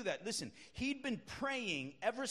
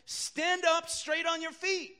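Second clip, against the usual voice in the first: loud, higher, slow command; 7 semitones higher, 6 dB louder, slower than usual. Retold or imitated. Preacher quoting Paul commanding the crippled man, loud. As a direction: call it out so he stands. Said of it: "he said in a very loud voice".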